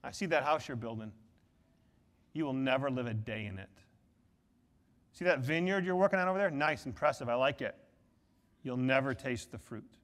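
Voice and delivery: quiet voice of God. Retold or imitated. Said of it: "God is looking down at them and say".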